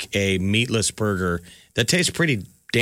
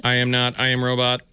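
even machine gun syllables; flat robot voice, every syllable even. Pretend. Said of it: "I love your robot voice".

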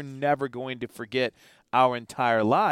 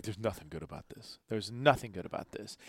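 dejected Teddy; 4 semitones lower, 8 dB quieter than usual. Retold or imitated. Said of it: "here I am with Teddy afterwards".

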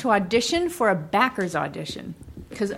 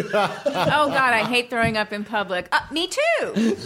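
airhead voice. Pretend. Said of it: "Airhead number one".

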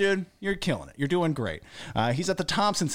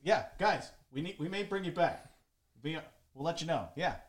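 hand over the phone; 7 dB quieter than usual. Real, not acted.

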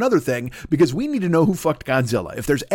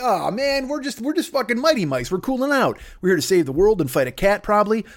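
mock grumpy mouse; 5 semitones higher than usual. Grumpy Mighty Mice voiced.

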